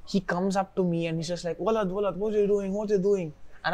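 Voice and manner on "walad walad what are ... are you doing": put-on high-pitched cranky scold from an old caretaker; imitating the crazy building caretaker yelling at a kid; irritated old man. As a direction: squawk it like a grumpy old man shooing a kid. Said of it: "he's super old and he's super crazy, irritated all the time".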